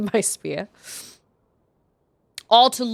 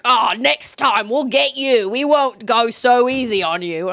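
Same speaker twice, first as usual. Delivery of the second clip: Yiga henchmen threat; 4 dB louder than usual. Retold or imitated. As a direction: imitate a blustering henchman's empty threat. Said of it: "They always are like".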